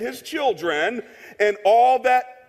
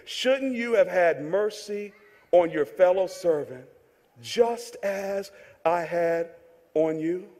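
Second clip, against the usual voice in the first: slow, sinking rebuke; restrained anger; 5 semitones lower, 5 dB quieter, slower than usual. A narrator's reading. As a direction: let the reproach drop low and quiet. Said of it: "In his anger".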